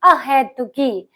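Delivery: अहेतुकी drawn out slowly; slow model word. Shown as a demonstration. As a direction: dictate अहेतुकी to the class. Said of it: "क्या होगा?".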